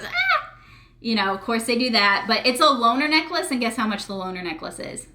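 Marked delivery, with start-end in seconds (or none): 0.0-0.5 high squeal of delight, imitated; mock gasp. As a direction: yelp like getting a surprise necklace. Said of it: "and she goes".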